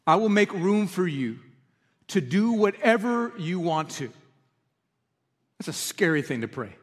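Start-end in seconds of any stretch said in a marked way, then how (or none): 0.1-4.1 slow, gentle reading of the lyric; quiet slow quote of the lyric. Shown as a demonstration. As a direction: let the words land softly, unhurried. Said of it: "to sing those lyrics".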